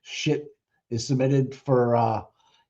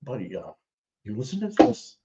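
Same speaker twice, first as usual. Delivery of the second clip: mock conspiratorial whisper; 3 semitones higher than usual. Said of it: "just like".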